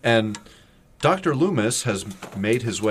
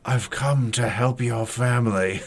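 Doctor Loomis. Retold or imitated. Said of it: "And he goes".

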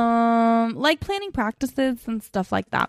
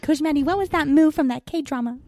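higher-pitched imitation of a curious student; 4 semitones higher than usual. Coach mimics students asking about the dance, student voice. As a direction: put on a pupil's asking voice. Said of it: "They talk just like that?".

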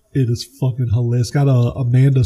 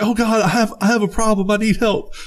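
higher, hammed-up admission; Ted admits his problem, mock sheepish higher voice; mock confession; 8 semitones higher than usual. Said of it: "he's like".

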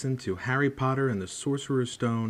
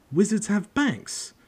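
high, slow amazed question; astonished; 10 semitones higher, 4 dB louder, slower than usual. Acted. Harry asks Hagrid in amazement, high and slow. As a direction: marvel at the idea.

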